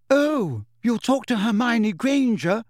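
high, shrill jealous outburst. A narrator's reading. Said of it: "she said shrilly".

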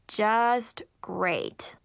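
drawn-out unenthusiastic groan of words; sarcastic. Acted. Older sister stuck with unwanted helper, sarcastic. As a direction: say it with dry dismay.

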